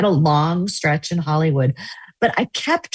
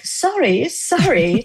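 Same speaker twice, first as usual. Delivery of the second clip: high-pitched, drawn-out Southern "Sorry, sorry"; hammed-up Southern apology; fake Southern accent; 8 semitones higher, slower than usual. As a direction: lay on a bad Southern twang. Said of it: "some terrible fake Southern accent".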